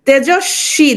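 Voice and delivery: তেজস্বী said "tejo-shshi", no b sound; silent ব. Shown as a demonstration. Teacher shows students ব is unpronounced, তেজস্বী as "tejo-shshi". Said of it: "দেখো এ বয়ের উচ্চারণটা হচ্ছে না".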